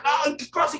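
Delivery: very high, wailing ay; hammed-up wail of grief; mock anguished cry. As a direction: cry out in shock at the news. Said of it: "y comienzas a gritar".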